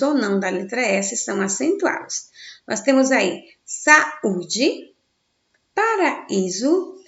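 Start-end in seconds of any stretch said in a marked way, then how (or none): 3.6-4.9 "saúde" slowly, breaking between "sa" and "ú"; split hiatus. Shown as a demonstration. Teacher gives hiatus examples, "saúde" split slowly into syllables. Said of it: "Ao separar as sílabas". 5.7-7.0 "paraíso" slow and raised, broken before "í"; split hiatus. Shown as a demonstration. Teacher gives hiatus examples, "paraíso" slowly split at the vowels. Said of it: "Ao separar as sílabas".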